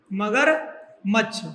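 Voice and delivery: very slow, split in two with a pause; slow dictation. Real, not acted. Teacher writing out the meaning for pupils, slow dictation. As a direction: spell it out slowly, part by part. Saying the word while writing it.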